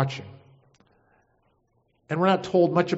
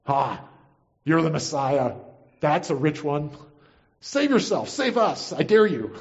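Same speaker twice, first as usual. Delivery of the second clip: mock them, rising into short jabs; taunting insults. Criminal on a cross to Jesus, taunting. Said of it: "yells insults at Jesus".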